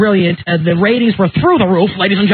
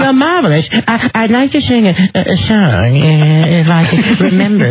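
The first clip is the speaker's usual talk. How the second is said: lightly voiced tipsy diva, fawning; impression of a classic singer. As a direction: slur it sweetly like a faded star. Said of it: "I do her at the end too".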